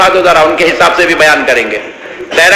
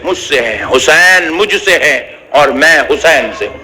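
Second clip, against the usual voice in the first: devotional preaching. Acted. Tender devotional part of sermon.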